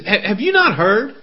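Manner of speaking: a dry, lightly mocking question; hint of sarcasm. Preacher voicing Paul's question to the Jews with a hint of sarcasm. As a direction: let a touch of sarcasm into the question. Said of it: "a hint of sarcasm in, in Paul's voice".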